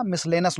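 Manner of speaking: "मिसलेनस" with the -ius ending cut to -nas; mispronounced miscellaneous. Shown as a demonstration. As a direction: say "मिसलेनस", dropping the i before the last syllable. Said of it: "मिसलेनस भी नहीं है". ("मिसलेनस" का गलत उच्चारण, आख़िर में "नस")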